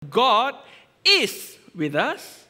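"God" punched high and loud, then "is with us" drawn out slowly; stress on GOD. Shown as a demonstration. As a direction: hit "God" hard and stretch the rest. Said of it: "Is it the first one?".

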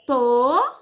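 "Toda" split into a drawn-out to, pause, da; syllable by syllable. Shown as a demonstration. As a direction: stretch and separate both syllables of "Toda". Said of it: "Quantas vezes a Emília abriu a boca".

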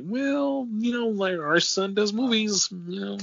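high-pitched put-on parent voice; lukewarm parents. Parents describing their son's film work, lukewarm. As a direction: imitate parents hedging, pitched well above your own.

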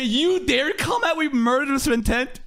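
a hint of a dramatic villain; lightly voiced menacing line; quoting. Fan retelling a character's threat, light drama. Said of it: "What did he say?".

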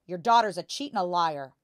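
loud, accusing outburst; angry father. A narrator's reading.

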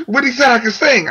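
high, mildly thrilled disbelief; excited retelling. Retold or imitated. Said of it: "I kinda spazzed out".

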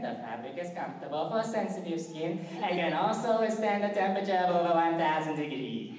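put-on bossy fashion designer with a clipped foreign accent; brisk and imperious, calling everyone darling; Edna Mode. The designer showing off the baby suit, imperious and brisk. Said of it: "Edna Mode from The Incredibles".

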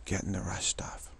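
unvoiced whisper to himself. Real, not acted. Talking to himself before starting, whispering. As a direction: whisper it under your breath. Quiet muttered start of recording.

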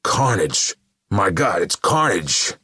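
loud, high shout of recognition; alarmed cry. A narrator's reading. Killers recognizing Carnage before them, alarmed shout. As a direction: cry out in horrified shock.

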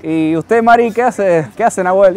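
playful imitation of a boastful mum among friends; lightly voiced mother chatting with her friends; mom bragging to friends. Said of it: "yo me imagino a mi mamá con sus amigas ahí".

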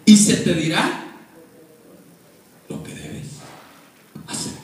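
drawn-out command, fading to a whisper; voice of the Lord. Acted. The Lord instructing Saulo, slow divine command. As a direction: proclaim it in slow, separate pieces. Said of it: "le dijo".

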